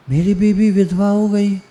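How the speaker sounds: lightly acted grief at the wife's fate; mock lament. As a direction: start to wail over the news, half-hammed. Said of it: "और छाती पीट पीट के रोने लगा".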